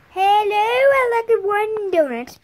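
a child's pretend customer ordering a treat. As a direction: sing it out as a cheerful shopper. Ordering donut at the store.

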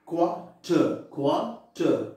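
"Quarter" in two spaced beats, quar then ter; split into syllables. Shown as a demonstration. Teacher demonstrating two syllables, "quarter" said in two separate parts. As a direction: break "quarter" after the first syllable, both times. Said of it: "two syllables only".

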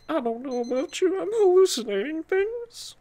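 mock crazed.

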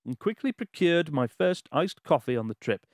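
measured, emphatic letter-reading voice; story read-aloud. Acted. Host reading a listener's Japan travel story aloud, dramatic narration.

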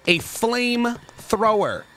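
slow, savoring flamethrower; slow relish. Real, not acted. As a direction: draw out flamethrower slowly.

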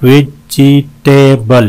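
"वेजिटेबल" slowly, in four full beats; syllable breakdown. Shown as a demonstration. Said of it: "चार हैं इसमें". ("वेजिटेबल" चार हिस्सों में धीरे)

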